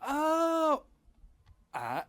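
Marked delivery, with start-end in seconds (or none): 0.0-0.8 a sudden high, loud gasp of surprise; startled burst of recognition; sharp high exclamation of surprise; surprised oh. Acted. Sudden recognition of old friend.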